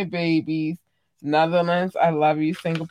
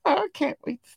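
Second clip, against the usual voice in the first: whisper; 11 semitones higher, 3 dB quieter than usual. Real, not acted. Excited whisper before starting.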